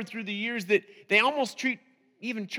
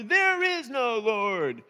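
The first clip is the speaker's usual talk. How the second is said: yelling over; 3 semitones higher, 4 dB louder, much slower than usual. Retold or imitated. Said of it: "he'd yell over".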